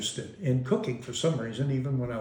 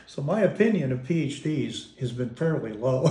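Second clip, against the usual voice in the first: laughing. Real, not acted. Wry joke about PhDs.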